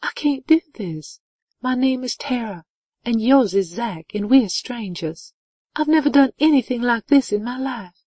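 high-pitched, tearful acted outburst; sobbing. A narrator's reading. Woman confessing to a near-stranger, acted high sobbing outburst. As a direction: let it spill out, high and upset. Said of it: "she sobbed".

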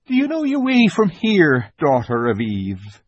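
a kind faun asking; gentle faun. A narrator's reading. Faun at the lamppost.

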